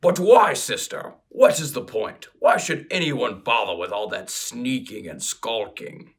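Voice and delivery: lightly voiced orc, rough and blunt. Playing Gogron the orc to his sister, lightly voiced orc scoff. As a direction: play the orc brother scoffing. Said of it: "in my best orc accent".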